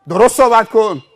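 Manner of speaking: loud, indignant reprimand; stern rebuke. Retold or imitated. Stranger rebuking the driver's manners, loud stern rebuke. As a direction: put the other person in their place. Retold roadside quarrel.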